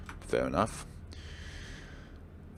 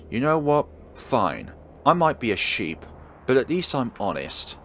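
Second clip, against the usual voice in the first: raised voice; 3 semitones higher than usual. Acted. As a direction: snap back, sick of dodging. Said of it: "causes me to raise my voice".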